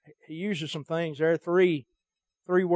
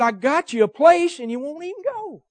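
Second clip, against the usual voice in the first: voice of God, higher; 10 semitones higher, 7 dB louder than usual. Acted. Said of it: "He said".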